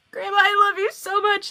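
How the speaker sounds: high, re-enacted adoring squeak; acted-out breathless adoration; overcome with affection. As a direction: gush at grandma, half helpless. Retells helpless reply to grandma.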